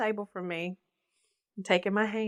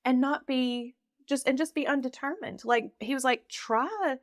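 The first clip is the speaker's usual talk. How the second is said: gentle; 4 semitones higher than usual. Retold or imitated. Kind counselor quoted.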